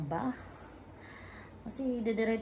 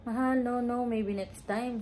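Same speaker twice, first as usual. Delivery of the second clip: polite refusal; 4 semitones higher than usual. Retold or imitated. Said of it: "sabi ko sa kanya".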